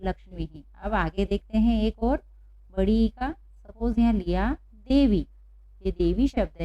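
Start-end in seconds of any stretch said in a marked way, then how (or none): 0.0-0.6 "लक्ष्मी ही" as one word, visarga as ही; softer recap of "लक्ष्मी ही"; visarga demonstration. Shown as a demonstration. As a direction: end "लक्ष्मी ही" on ह plus long ई. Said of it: "क्या उच्चारण होगा?".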